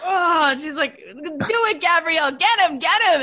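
high-pitched mock gremlin egging others on; gremlin toddler. Mom imitating three-year-old setting sisters on dad, high gremlin mischief. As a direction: imitate a tiny gremlin inciting an attack. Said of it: "I think it's like a gremlin".

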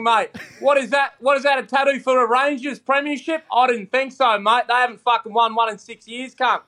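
cheeky mock insults, rapid and relentless; mock abuse roast. Comedian roasting a wrestler on request, mock abusive. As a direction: tear into him like a paid roast. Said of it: "hammer and criticise Grado for me".

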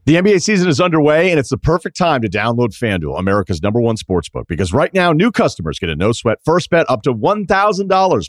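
upbeat, brisk ad read; sponsor ad read. Acted. Host reads sponsor spot to listeners, brisk ad voice. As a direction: sell the sportsbook promo like a radio spot.

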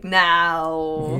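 loud, long drawn-out 'no'; mock defiant no. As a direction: draw the word out in comic refusal. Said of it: "I'd be like".

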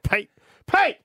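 high call of a name. Retold or imitated. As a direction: call out across the room. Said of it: "He's like".

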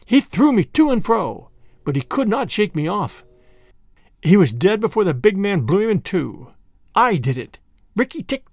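lightly acted boasting and challenge; triumphant mongoose. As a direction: crow over the kill, then dare the enemy.

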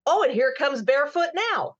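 hyped arena announcer call; monster truck announcer. Shown as a demonstration. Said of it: "in the monster truck announcer voice".

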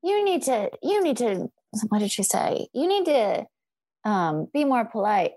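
high, prissy imitation of the woman; mock her as a prim scold, pitched high; mock scolding lady. The woman in the locker room scolding, high prissy mock.

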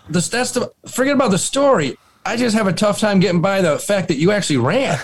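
fast, laughing disbelief. Retold or imitated. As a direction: rattle it off through laughter. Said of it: "She goes".

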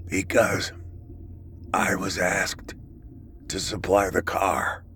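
strained, breathy confession; weak dying whisper. Acted.

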